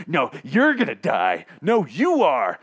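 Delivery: mock Rick like a sulky teenager; hammed-up adolescent retort; mocking bratty teen. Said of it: "he's just like".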